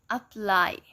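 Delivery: apply starting with a weak schwa, stress on ply; schwa first syllable. Shown as a demonstration. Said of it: "you say apply".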